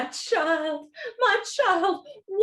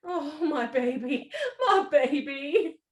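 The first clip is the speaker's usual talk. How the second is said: tearful relief; 3 semitones lower than usual. Acted. Mother embraces lost child.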